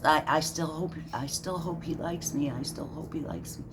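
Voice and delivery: a mocking little whine, dropping away; a hint of a pleading fan; mock whining. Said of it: "he's whining".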